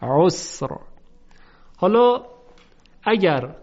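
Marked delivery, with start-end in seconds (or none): 0.0-0.7 عسر ending on a thick, vowelless r; full, heavy final ر in عسر. Shown as a demonstration. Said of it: "حرف را باید تفخیم بشود".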